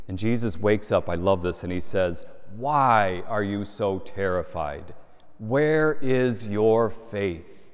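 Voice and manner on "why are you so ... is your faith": calm rebuke. Acted. Jesus calmly rebukes the disciples.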